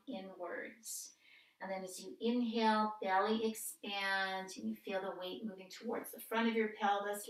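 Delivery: calm, measured breath-cue delivery with pauses; guided yoga practice. Real, not acted. Yoga teacher guiding a seated breath warm-up, calm instructional voice. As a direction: lead gently through breath and movement, lengthening the cues.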